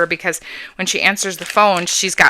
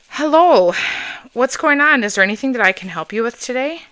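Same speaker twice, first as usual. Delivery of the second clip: sweet phone voice. Shown as a demonstration. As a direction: sound helpful, like calling a parent. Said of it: "there's pretty much my voice when I call parents".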